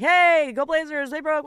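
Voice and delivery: imitating passing fans yelling; fans calling out. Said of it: "Usually it's just like".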